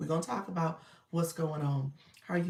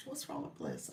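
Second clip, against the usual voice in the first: low, soft murmur to herself; low worried repeat; 14 semitones lower, 8 dB quieter than usual. Real, not acted. Host musing over the sick dog, low murmur. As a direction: repeat it quietly, much lower, to yourself.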